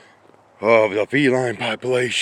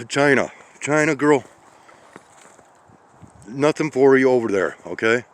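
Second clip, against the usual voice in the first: higher, louder sing-song call to a cat; calling a pet; 4 semitones higher, 3 dB louder than usual. Real, not acted. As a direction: call the cat away from it, gently firm.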